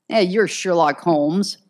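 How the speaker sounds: a hint of a sarcastic growl; lieutenant mocking the detective, understated growl; mild growl. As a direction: grumble the jab. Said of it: "McGivney growled".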